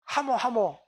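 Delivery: nod along in Gyeongsang dialect. Shown as a demonstration. 경상도 사투리로 맞장구. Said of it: "경상도 말로 하모".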